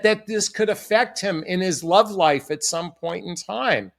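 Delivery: ordinary talk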